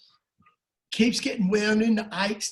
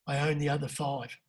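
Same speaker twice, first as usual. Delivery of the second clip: acted quiet confiding; 4 semitones lower, 7 dB quieter than usual. Punchline confided to the owner.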